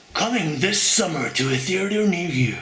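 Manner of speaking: trailer voice. Retold or imitated. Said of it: "Trailer voice".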